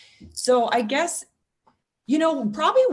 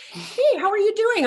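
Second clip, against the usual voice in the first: retold cab driver; 13 semitones higher, 5 dB louder than usual. Retold cab driver greeting her.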